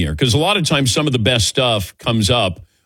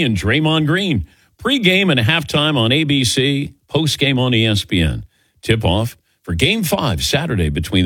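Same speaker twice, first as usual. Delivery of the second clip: broadcaster's announcer read, punchy at the start; official promo read. Shown as a demonstration. Radio host reads the official show intro as announcer voice. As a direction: sell it like a network promo. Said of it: "Let me give you the official introduction here".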